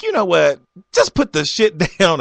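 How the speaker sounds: fed up, he barks it at her; exasperated snap. Retold or imitated. To the cashier over waffle fries, a loud exasperated snap. Snapping at cashier in retold argument.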